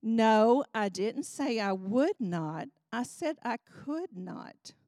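patient but firm insistence; emphatic correction. Retold or imitated. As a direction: press the difference between "would" and "could". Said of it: "he was emphatic about it".

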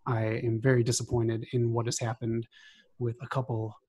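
heated, scornful callout promo; angry wrestling promo. Real, not acted. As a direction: cut a furious heel-style promo on them. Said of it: "I just wanted to cut a promo".

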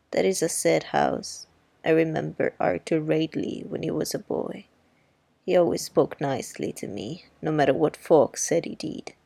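put-on a touch of the wry older woman; lightly voiced Miss Maudie.

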